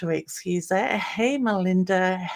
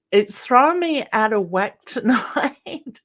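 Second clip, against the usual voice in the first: frustrated laugh; 5 semitones higher, 4 dB louder than usual. Real, not acted. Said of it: "there goes my frustration again".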